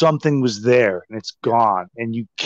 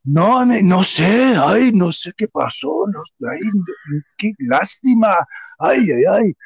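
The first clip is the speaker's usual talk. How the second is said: higher-pitched imitation of fake sympathy; feigned innocence; 6 semitones higher than usual. Houseguest denying he knows what happened, imitated feigned innocence. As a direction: lament in Spanish as a guest playing dumb. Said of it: "He's acting funny".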